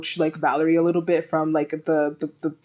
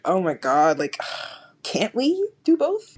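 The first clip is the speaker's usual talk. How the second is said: exasperated whine; slower than usual. Retold or imitated. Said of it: "And I was like".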